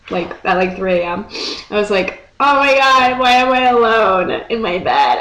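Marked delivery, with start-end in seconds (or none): 2.4-5.2 mock lament. Vlogger retelling being alone at three A M, mock despairing. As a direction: lament it like a hammed-up lonely heart.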